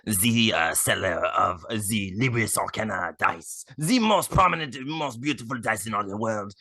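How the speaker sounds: put-on sexy French accent ad read. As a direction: purr it like a seductive Frenchman. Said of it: "you have to do it in a French accent".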